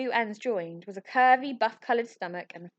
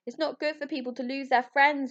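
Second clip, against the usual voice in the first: wailing; 6 semitones higher than usual. Acted. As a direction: wail it like a heartbroken Yeti. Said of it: "wailed Ambrose".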